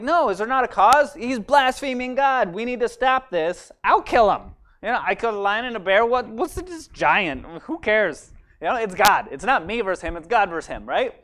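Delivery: put-on a boy burning to fight the giant; fired-up young David. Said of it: "And he's like".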